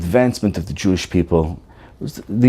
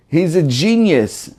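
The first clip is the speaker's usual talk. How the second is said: mockingly; 5 semitones higher, slower than usual. Shown as a demonstration. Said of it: "in a mockingly way".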